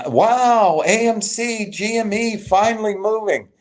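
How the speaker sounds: high, sing-song mock of an eager hype chatter; lightly mocking rival's excited chat message. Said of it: "He's saying".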